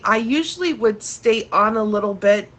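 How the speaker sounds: congested, stuffy-nosed speech; blocked nose. Real, not acted. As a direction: talk through a stuffed-up nose. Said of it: "I have a lot of congestion here".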